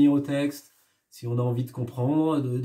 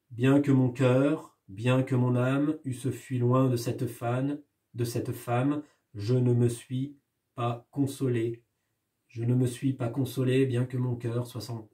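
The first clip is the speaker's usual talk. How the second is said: recital showing repetition. Shown as a demonstration. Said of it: "vous l'entendez dans ce poème".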